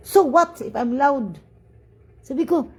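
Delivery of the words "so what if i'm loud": imitated defiant retort. Noisy passenger's retort, retold.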